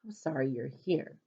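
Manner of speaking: soft muttered whisper aside. Acted. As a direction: whisper it under your breath. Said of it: "I whisper".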